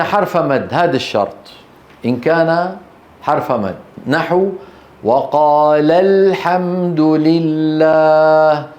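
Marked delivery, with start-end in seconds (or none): 5.0-8.7 very slow, drawn-out Quranic chant; tarteel recitation. Shown as a demonstration. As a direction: recite the verse with long held vowels. Teacher recites verse example. (تلاوة مرتلة بطيئة)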